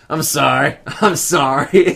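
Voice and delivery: apologising through laughter, slow; a sheepish, giggling sorry; laughing apology. Retold or imitated. Husband apologising to his scared wife, laughing. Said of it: "And I'm just like".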